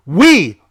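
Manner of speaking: We punched loud and long; stress on WE. Real, not acted. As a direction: hit the word We hard, as if in capitals. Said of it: "capital W, capital E".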